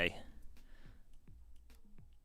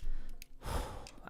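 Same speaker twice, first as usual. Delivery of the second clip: heavy sigh; 6 dB quieter than usual. Real, not acted. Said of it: "Out of breath".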